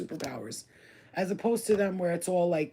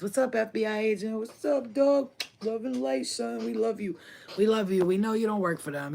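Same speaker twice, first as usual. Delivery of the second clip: higher, sing-song shout-out; playful mock greeting; 4 semitones higher than usual. Reader greeting the watching FBI agent, playful mock affection. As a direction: hail an imagined spy like an old pal.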